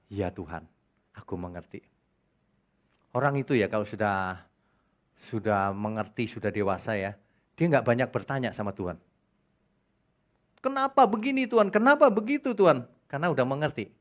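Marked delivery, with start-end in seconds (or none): 0.1-1.8 soft, humble voice; hushed, reverent imitation; quiet believer's prayer. Voicing a believer who understands. 10.6-12.9 higher, pleading complaint to God; lightly hammed-up whining to God; whiny questioning believer.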